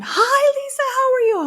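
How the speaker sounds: put-on high, airy old-grandma voice on the phone. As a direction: put on a sweet granny phone voice. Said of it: "I call my grandmother and I get on the phone".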